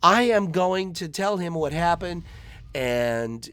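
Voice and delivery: very high, loud shrieking mom; mother shrieks at her son, very high and loud; hysterical mother. Retold or imitated. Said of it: "She's like".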